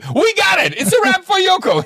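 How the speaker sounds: very high, loud wrap call; thrilled director. Retold or imitated. Director calling the wrap in triumph, very high and loud. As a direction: shout it up high, delighted. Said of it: "director wraps shot".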